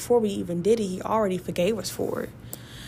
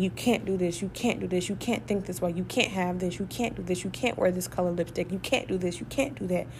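mock rule list; 4 dB quieter than usual. Mocking the rule-makers' list.

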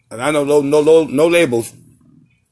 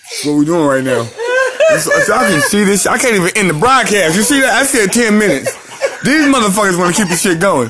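laughing; 3 semitones higher than usual. Real, not acted. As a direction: giggle through the words. Laughing through the broadcast.

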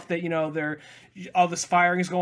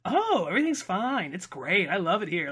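chirpy fake-content android; lightly voiced compliant fembot; mock dazed robot. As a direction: sing it out like a blank happy robot. Voicing reprogrammed compliant fembot.

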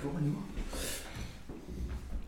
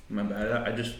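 talking with food in mouth; mumbling round a mouthful; mouth full; 2 semitones lower, 5 dB quieter than usual. Real, not acted. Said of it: "I don't like talking in my mouth".

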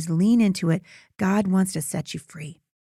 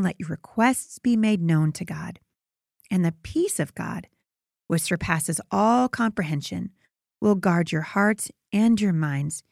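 scripture reading. Acted. Reads scripture passage aloud.

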